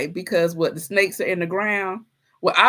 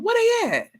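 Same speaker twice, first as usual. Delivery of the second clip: much higher, baffled; incredulous squeak. Acted. Wondering aloud where the snakes went, high and incredulous. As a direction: ask as if it makes no sense. Comic disbelief about hidden snakes.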